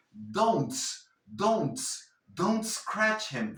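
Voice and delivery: don't glued onto scratch as "donts-cratch"; slow linked don't scratch, no vowel before the S; T joined to S. Shown as a demonstration. Teacher showing how to drop the false E, don't fused into scratch. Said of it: "vas a pegar la T".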